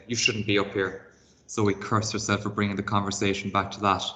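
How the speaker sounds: expressive read-aloud storytelling; reading a chapter book aloud to pupils; story narration. A narrator's reading. Teacher reads story aloud.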